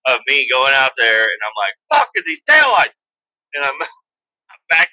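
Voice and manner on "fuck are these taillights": high and loud exasperated shout; a dreamer losing patience, pitched way up; frustrated yell. Retold or imitated. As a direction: yell at the broken taillights.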